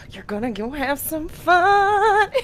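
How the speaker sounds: put-on drunk cheering. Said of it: "He's like".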